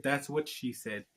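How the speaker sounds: a sly stage whisper through a stifled laugh; mock whisper. A narrator's reading. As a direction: lean in and whisper the joke. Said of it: "stifled a laugh and whispered".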